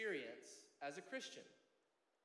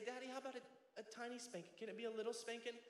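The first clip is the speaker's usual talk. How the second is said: pleading little daughter; 4 semitones higher, faster than usual. Retold or imitated. Daughter bargaining with Daddy for a smaller spanking, lightly imitated plea. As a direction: bargain gently in a slight little-girl voice. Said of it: "What she'll even do is she'll say".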